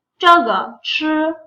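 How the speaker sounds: each syllable drawn out slowly; slow classroom model sentence. Shown as a demonstration. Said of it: "एक sentence हम practice करते हैं".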